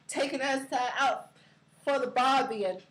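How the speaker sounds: playful Aussie twang on the barbie line; hint of an Australian accent, lightly hammed; mock Australian accent. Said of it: "With the Aussie slang".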